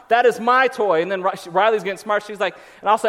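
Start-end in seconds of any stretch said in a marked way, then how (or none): 0.1-1.0 loud, emphatic mock-stern dad; old-school parent. Dad reclaiming the toy from kids, mock stern. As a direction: stake the claim word by word. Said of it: "I get old school on 'em".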